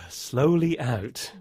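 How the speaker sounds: slow yawning breath out; yawn demo. Shown as a demonstration. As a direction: show a yawn, breathing out slowly. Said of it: "it's when you open your mouth wide".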